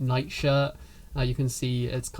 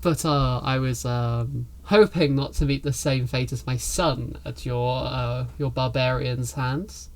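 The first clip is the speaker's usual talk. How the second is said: sarcastic. Acted. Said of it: "pierces the sarcasm".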